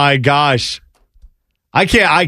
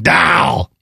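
mock yelled "Dow" in a broad Chicago accent. Chicago guy with a mustache yelling at you, mock Chicago accent. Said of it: "like, yelling at you".

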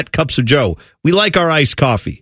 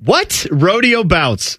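disbelieving; 3 semitones higher, much slower than usual. Real, not acted.

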